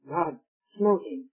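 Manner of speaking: slow, musing repeat with a rising end; slow mocking echo. Shown as a demonstration. Preacher echoing a congregant's objection, slow mock musing. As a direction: echo the objection back slowly, half mocking. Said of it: "Oh, I see".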